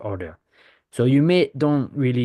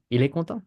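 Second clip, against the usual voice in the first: "Il est content" higher, rising on "content"; French question "Il est content" made by pitch alone; 6 semitones higher, faster than usual. Shown as a demonstration. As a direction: ask it by lifting "content". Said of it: "So you get a rising".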